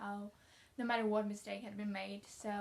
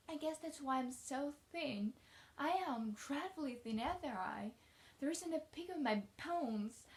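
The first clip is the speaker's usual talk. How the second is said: lightly voiced young girl, higher lilt; a touch of earnest little-girl emphasis; earnest chatty child; 5 semitones higher than usual. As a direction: confide it with childlike drama. Reads orphan girl's lines.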